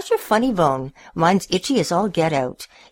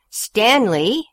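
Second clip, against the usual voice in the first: louder higher call of the name; yelled; 6 semitones higher, 4 dB louder than usual. A narrator's reading. Owners yelling at Stanley for chasing the cat. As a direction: yell the dog's name. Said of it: "they yelled".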